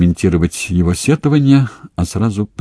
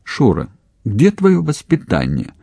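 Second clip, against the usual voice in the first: reproachful; 7 semitones higher than usual. A narrator's reading. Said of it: "укоризненно вздохнула мать".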